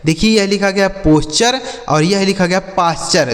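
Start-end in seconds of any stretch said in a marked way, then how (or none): 1.0-1.6 "पोस्चर" with an O vowel; "पोस्चर", round O before s-ch; contrasting word. Shown as a demonstration. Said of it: "दोनों का meaning अलग अलग". 2.8-3.3 "पास्चर" with a long A vowel; "पास्चर", open AA before s-ch; contrasting word. Shown as a demonstration. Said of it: "दोनों का meaning अलग अलग".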